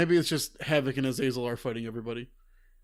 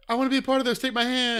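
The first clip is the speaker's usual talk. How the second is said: Charles voice; 9 semitones higher than usual. Retold or imitated.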